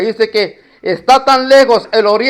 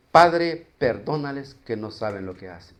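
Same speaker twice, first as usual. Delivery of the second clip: súplica suave y baja, casi susurrada; oración en voz baja; 8 semitones lower, 9 dB quieter than usual. Acted. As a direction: pide perdón con ternura, sin fuerza. Cita la oración de Jesús. (Jesús en la cruz, rezando suave al Padre)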